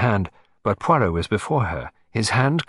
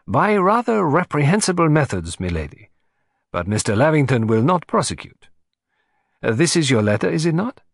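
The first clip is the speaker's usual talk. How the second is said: a hint of a precise foreign detective; lightly voiced Belgian detective; 7 semitones higher, 4 dB louder than usual. Detective to his client, lightly accented and composed. Poirot's voice.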